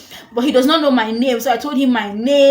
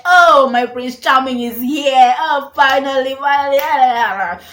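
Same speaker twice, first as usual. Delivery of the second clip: tag swooning over crush; 5 dB louder, slower than usual. Retold or imitated. Dreamy thoughts about her crush.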